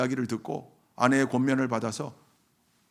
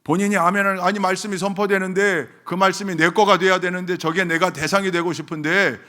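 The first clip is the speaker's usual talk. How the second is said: loud, raised mock protest; retold indignation; 6 semitones higher, 8 dB louder than usual. Preacher retelling the deaconess's protest at being silenced, indignant. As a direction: imitate an offended worshipper protesting. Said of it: "화를 내세요".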